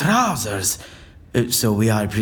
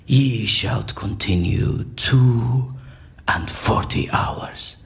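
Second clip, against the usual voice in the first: theatrical verse recitation. Acted. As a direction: recite the verse like a stage actor casting a spell. Continues the Shakespeare recitation.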